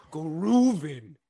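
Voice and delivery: hyped. Real, not acted. Hyping friend's new job.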